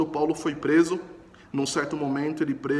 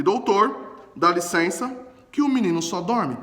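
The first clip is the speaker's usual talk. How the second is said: triumphant retort; 3 semitones higher, 5 dB louder than usual. Retold or imitated. Paulo triumphantly corrects the doctor.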